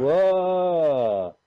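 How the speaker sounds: loud startled whoa; surprised. Real, not acted. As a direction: blurt it out in shock. Reacting to trailer dinosaur.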